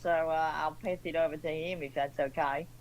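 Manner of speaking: put-on Australian accent. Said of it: "in my Australian accent".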